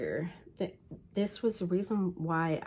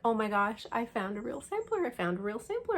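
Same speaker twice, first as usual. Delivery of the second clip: retold thrill, quick and slightly raised; excited discovery; 4 semitones higher, faster than usual. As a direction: relive an excited find. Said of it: "I was so excited".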